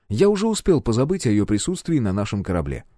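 ordinary delivery, nothing marked

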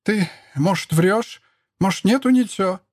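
put-on high pleading old woman's question; last hope question. A narrator's reading. Mother-in-law hoping it is a lie, high pleading. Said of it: "с последней надеждой спросила".

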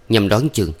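usual speaking voice

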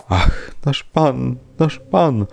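slow, high wail; drawn-out high lament; wailing maidservant. A narrator's reading. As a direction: cry out for the master, rising in pitch. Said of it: "wołała służąca".

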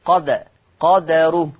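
slow قد, قدره with a bouncing vowelless dal; Warsh-style قدره, dal echoed without a full vowel; sukun with qalqalah. Shown as a demonstration. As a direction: bounce the d in قدره, qad-ruh. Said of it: "ويترتب على سكون الدال القلقلة".

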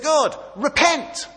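high, slow shouted demand; shouted plea. Retold or imitated. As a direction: call on God to repent at full voice. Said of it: "He says".

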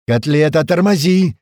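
high, loud urgent shout. A narrator's reading. Crewman halting the driver mid-chase, shouting. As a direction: yell at the driver to stop. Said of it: "снова закричал Упырь".

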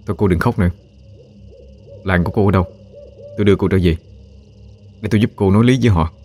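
understated, gentle consolation. A narrator's reading. Wary Minh consoles the crying stranger, gently. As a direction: comfort her with a slightly softened voice. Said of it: "vẫn hạ giọng an ủi".

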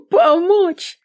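high, mocking, incredulous "Помочь?". A narrator's reading. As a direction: throw "Помочь?" back in scornful disbelief. Mocks priest's offer of help.

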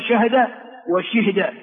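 شهد وشهد as shahda and shihda; two variant forms. Shown as a demonstration. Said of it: "ويجوز أن تقول". (شَهْدَ وشِهْدَ)

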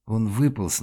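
ordinary delivery, nothing marked

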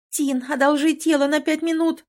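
high, loud excited plea; urgent high chatter asking to borrow the body; rattling off. A narrator's reading. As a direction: blurt it out in a rush. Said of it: "затараторила".

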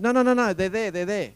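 high, loud rush of no no no; eager neighbour keen to spill it; hammed-up urgent denial. Neighbour eagerly points out complainer.

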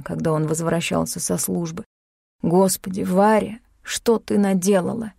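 plain reading voice

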